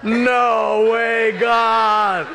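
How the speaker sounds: high, drawn-out shout; hammed-up horrified refusal; comic protest. Speaker to God after an unwelcome request, shouted protest.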